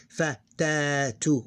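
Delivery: "fa, ta, tu" in separate syllables, keeping the "tu"; full ending, not used at pauses. Shown as a demonstration. Teacher showing what we don't pronounce before a stop, full ending. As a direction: slowly sound out "fa, ta, tu" with a long "ta". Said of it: "We don't pronounce it like this".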